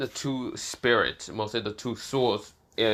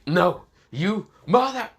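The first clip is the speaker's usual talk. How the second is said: much higher, louder last cry; desperate cry; 9 semitones higher, 6 dB louder, slower than usual. Acted. Lucas cries out at Asta as he turns to dust, desperate. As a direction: scream as you crumble.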